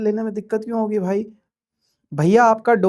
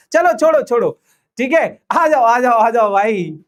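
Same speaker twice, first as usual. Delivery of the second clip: calling out; 3 semitones higher, 5 dB louder than usual. Real, not acted. Calling class to start.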